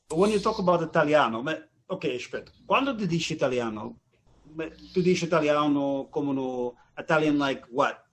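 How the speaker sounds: lightly put-on Italian accent. Shown as a demonstration. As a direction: slip between English and Italian with an Italian accent. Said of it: "No, we'll do Italians".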